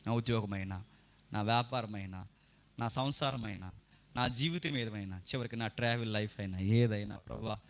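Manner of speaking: low-pitched imitation of a pledge in prayer; churchgoer's promise. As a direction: mimic a believer's subdued vow to the Lord. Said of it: "వెళ్ళే ముందు ఒక మాట ఇచ్చి వెళ్ళిపోతావు".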